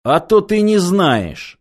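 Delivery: slow, calm and unbothered; calm reply. Acted. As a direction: answer calmly, unimpressed. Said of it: "спокойно ответил снайпер".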